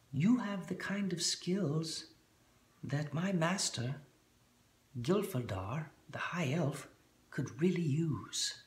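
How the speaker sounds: high, slow whispery gnome voice; gnome accent. Acted. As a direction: hush it like a sly little gnome. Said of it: "How about that for a gnome accent".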